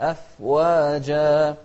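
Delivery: أفواجا chanted with a held, still f; full fa sound. Shown as a demonstration. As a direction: give the f in أفواجا its full length. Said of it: "أعطينا الفاء حقه".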